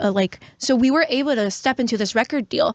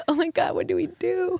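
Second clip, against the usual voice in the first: panicked quote; 8 semitones higher, 4 dB quieter than usual. Retold or imitated. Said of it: "And they're like".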